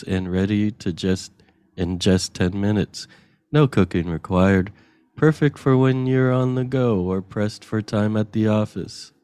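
convincing ad read; warm and persuasive. Acted. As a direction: sell it sincerely. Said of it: "Really good. Your enthusiasm".

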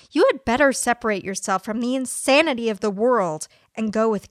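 a lightly played fire-and-brimstone preacher, earnest; deadpan sermon parody in a preacher's cadence; mock preacher. Host reading a fake sermon to listeners, mock preacher.

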